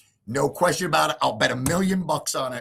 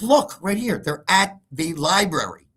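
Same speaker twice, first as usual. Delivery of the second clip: mock wife; 6 semitones higher, 4 dB louder than usual. Wife showing app.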